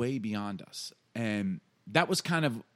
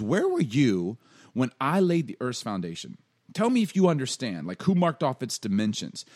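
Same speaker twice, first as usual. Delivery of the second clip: raised, emphatic sarcastic questioning; God; 3 semitones higher, 5 dB louder than usual. Acted. God quizzing Job on creation, pointed sarcastic challenge. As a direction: grill him with rhetorical questions. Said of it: "almost like God's getting sarcastic".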